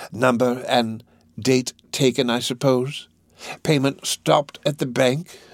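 put-on slow, deliberate old dealer; lightly voiced Fagin. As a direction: reason it out unhurriedly as a scheming fence. Fagin reasons about the note.

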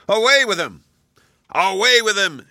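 bay for him like an angry mob; mob shouting. A narrator's reading. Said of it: "shouted one and all".

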